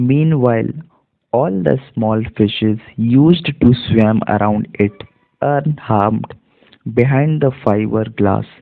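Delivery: very slow, careful reading aloud; slow model reading. Shown as a demonstration. Teacher reads the whole passage to students, slow and careful. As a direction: read it slowly so students follow along.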